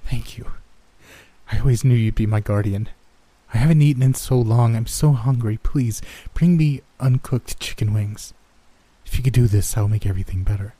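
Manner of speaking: hungry child's earnest plea, a hint of German; weary, pleading child. Starving girl begs her guardian for food, lightly voiced.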